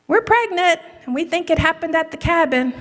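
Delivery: high, hushed, excited whisper; mock newlywed whisper to the parent; breathless announcement. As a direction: whisper the big news like a giddy newlywed. Son and wife announcing pregnancy.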